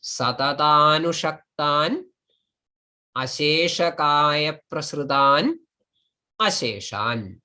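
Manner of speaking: "Satatanushaktan", "asheshakaya prasrutan", "asheshan" each apart, pauses between; split into three. Shown as a demonstration. Teacher showing the three words in the block, separated by pauses. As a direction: lift the end of each piece, drop on "asheshan". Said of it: "made out of three words".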